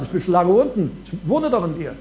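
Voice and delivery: low and soft, patient; gentle unbothered answer; soft Jesus reply. Pretend. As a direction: answer quietly and kindly.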